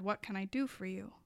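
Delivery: a soft, low-voiced echo of his whisper; whispered quote. Recalling his tender words, a soft quoted whisper. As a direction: hush it like a gentle lover. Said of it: "bed and whispered".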